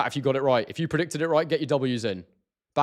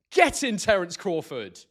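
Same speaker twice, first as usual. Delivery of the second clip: joyful cheer; 6 semitones higher, slower than usual. Real, not acted. Celebrating the win on stream.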